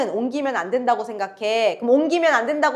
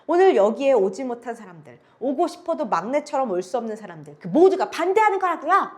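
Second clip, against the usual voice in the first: firm, forceful tone. Acted. Eldest daughter defies the township chief, forceful and firm. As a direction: stand your ground against the township chief. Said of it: "장녀가 더욱 강경한 어조로".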